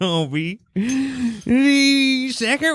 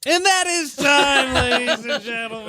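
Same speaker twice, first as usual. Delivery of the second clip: announcer voice; 2 semitones lower than usual. Acted. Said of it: "I forgot the voice".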